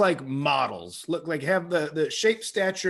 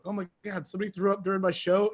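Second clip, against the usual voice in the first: higher, fast, startled question; comic told of a barf during his set; mock shock; 5 semitones higher, faster than usual. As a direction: act stunned, quick and a bit higher. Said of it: "I'm like".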